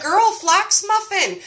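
put-on slow knowing girl, flax muffin; friend's matter-of-fact advice. Friend answering her panic, slow and knowing. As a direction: hand over the fix, drawn out. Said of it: "And she was like".

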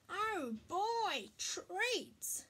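high, swooping eager voice; excited dog. A narrator's reading. Marley the dog spots the food, excited. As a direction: pounce on the words with glee.

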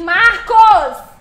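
loud, startled call of the name; surprised shout. Real, not acted. Streamer startled by a viewer's Pix, shouts Marcos.

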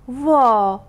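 loud, high shocked "وا"; shocked gasp. Acted. Aunt shocked when Amir farts at the table, loud gasp. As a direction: blurt it out in disgust and surprise.

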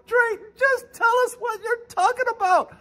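high squeaky viewer impression; mock impatient viewer. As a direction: whine it like an impatient fan. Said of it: "you're sitting at the edge of your seat going".

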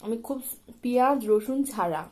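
speaking with food in mouth; muffled chewing speech; chewing while talking. Real, not acted. Seen 2: Bit momo at -7; lips pressed, chewing motions between words.

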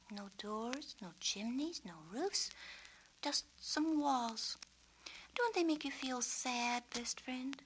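put-on half-whispered sadness over old houses; musing sadly. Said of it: "Sookie mused".

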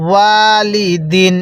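ওয়ালিদিন with ওয়া stretched, slow; drawn-out ওয়া. Shown as a demonstration. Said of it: "ওয়াওয়ের মধ্যে টান দিবেন". (ওয়ালিদিন, ওয়া টেনে ধীরে)

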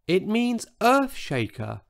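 high, small, gentle voice; a giant with a tiny voice. A narrator's reading. Huge dinosaur tells Brenda of moving in, tiny-voiced. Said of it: "in a voice so tiny".

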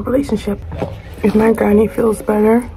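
talking between bites; chewing food. Real, not acted. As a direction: mouth partly full. Seen 0: just took a forkful; lips pressed, mouth working while speaking.

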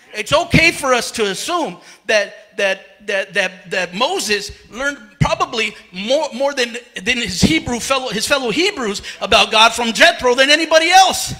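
breathless preaching; winded, words pushed out between breaths. Real, not acted. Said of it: "I'm out of breath, can you tell?".

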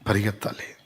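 a soft echo of పరిగెత్తాలి; quiet repeat. Shown as a demonstration. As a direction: drop the voice and repeat పరిగెత్తాలి softly. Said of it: "ఉం?".

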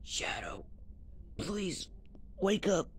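breathy whispered call of his name; whispering to an unconscious friend. Acted. Pleading with fallen Shadow.

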